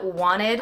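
"wanted" as "wannid"; hard N. Shown as a demonstration. Coach names the sound, hard-N "wanted". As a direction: drop the T after the N in "wanted". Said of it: "I call it a hard N".

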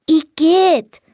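put-on very high, loud childish yuck; boy rejecting a turnip with a childish squeal; disgusted little boy. A narrator's reading. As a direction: squeal it like a grossed-out kid.

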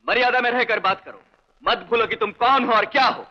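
heated, commanding reprimand; angry warning. Acted. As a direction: put him in his place, firmly. Warns friend to know his place.

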